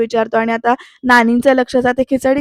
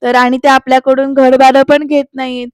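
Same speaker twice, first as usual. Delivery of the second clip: fed-up mimicking; 5 dB louder than usual. Daughter parroting her mother's lecture back at her, mildly exasperated. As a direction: parrot the familiar lecture with growing annoyance.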